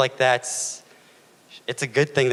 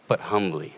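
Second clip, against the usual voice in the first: pause, then land on HUMBLY; emphasis on humbly. Real, not acted. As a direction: HUMBLY set apart by a pause. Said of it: "why do I emphasize the word humbly".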